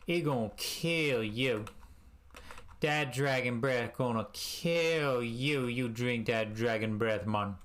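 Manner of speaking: a light mock Jamaican accent, slow and drawn out. Imitating Bruno pushing dragon's breath, light Jamaican accent. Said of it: "I made Bruno Jamaican".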